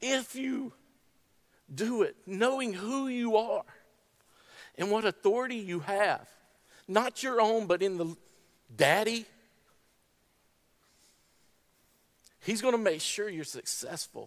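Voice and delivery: tearful speech, crying while speaking. Speaker encouraging listeners, crying while speaking. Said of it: "I'm sorry I'm crying".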